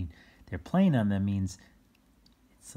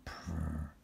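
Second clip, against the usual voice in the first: soft attempted purr; 5 semitones lower, 9 dB quieter than usual. Shown as a demonstration. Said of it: "I tried to purr".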